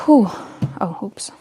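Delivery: breathless, puffing between words; out of breath. Real, not acted. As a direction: talk while catching your breath. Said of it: "I'm so out of breath".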